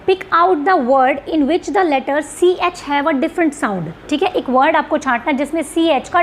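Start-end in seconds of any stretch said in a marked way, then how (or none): 0.1-3.8 slow, measured English reading; question read-out. Real, not acted. Teacher reads the next question to students, slow read-out. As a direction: read the question slowly and deliberately.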